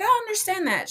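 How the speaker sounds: high, sweet imitation of a friend. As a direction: imitate a sympathetic best friend. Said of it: "she's so sweet".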